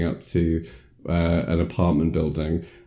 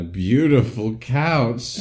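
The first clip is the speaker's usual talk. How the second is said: mock-gushing; 5 semitones higher, much slower than usual. Mock-grand item in the retelling.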